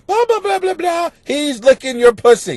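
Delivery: mock posh, lifted voice for the letter; snooty letter-writer. Podcast host mocking a listener's fancy letter, snootily. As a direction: read it like you have your pinky out. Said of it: "you wrote this with your pinky out".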